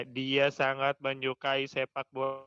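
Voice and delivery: slow and flat, no rise or fall, like a Google robot. Shown as a demonstration. Student demonstrating a clause without intonation, flat robotic monotone. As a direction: read it like a monotone machine voice. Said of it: "Tanpa intonasi itu datar ya maksudnya".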